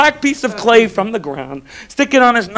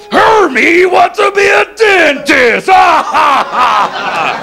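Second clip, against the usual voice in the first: mocking boss elf; 8 semitones higher, much slower than usual. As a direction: sneer it at him in front of everyone. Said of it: "his boss cuts him down".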